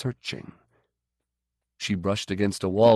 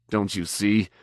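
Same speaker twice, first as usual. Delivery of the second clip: gibbering. Acted. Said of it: "He gibbered".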